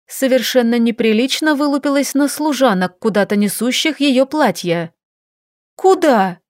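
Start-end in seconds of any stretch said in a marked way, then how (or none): 5.7-6.4 shout. A narrator's reading. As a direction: cry out after the maids. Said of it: "крикнула она".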